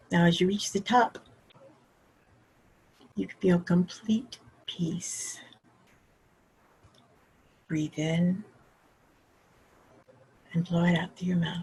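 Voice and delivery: gentle, very soothing, calm guided-meditation voice. Guiding a listener through a short made-up visualization: very calming and soothing. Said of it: "Very calming and very soothing".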